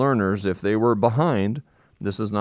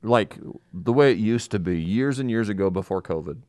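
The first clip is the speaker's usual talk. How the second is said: muffled through a mask; talking behind a mask; through a face mask. Real, not acted. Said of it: "if we sound a little muffled".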